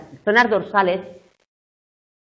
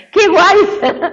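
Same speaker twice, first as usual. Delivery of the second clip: excited; 12 semitones higher, 8 dB louder than usual. Real, not acted. Teacher's playful exclamation.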